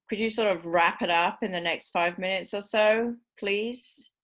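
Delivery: "please" lifted high in a straight rise; polite request, but the one in charge; dominant rising tone. Shown as a demonstration. Teacher tells a chatty student to wrap up, rising. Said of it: "that's the dominant choice of the rising tone".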